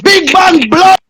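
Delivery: a raging rant at the woman; real furious tirade; furious cursing shout. Real, not acted.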